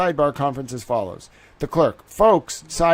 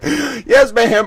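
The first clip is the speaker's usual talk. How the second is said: mock meek reply; 8 semitones higher, 6 dB louder than usual. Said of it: "That's the greatest thing I've ever heard".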